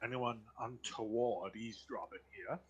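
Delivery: put-on polite, formal old butler. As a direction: speak like a courteous household butler. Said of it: "my butler voice".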